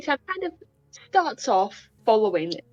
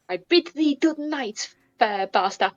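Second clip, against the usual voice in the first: cringey courtly farewell; 2 semitones higher, slower than usual. Acted. Guest taking his leave of bar staff, awkwardly courtly. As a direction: overdo an old-fashioned goodnight. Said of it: "he cringes at himself at that".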